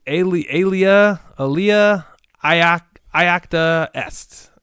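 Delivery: Elia Iacta Est sounded out slowly, syllable by syllable; halting attempt. Shown as a demonstration. Attempting a Latin game title, unsure and slow. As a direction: stumble slowly through the Latin. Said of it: "I don't know how to say it".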